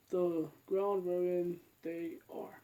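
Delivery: slow sleepy yawning voice; words stretched by a yawn. Real, not acted. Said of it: "I don't know why I'm yawning".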